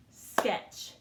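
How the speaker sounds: "Sketch" whispered, each sound crisp; whispered model word. Shown as a demonstration. Teacher whispering the spelling word for pupils to listen. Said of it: "Let's listen to the word and clap it out".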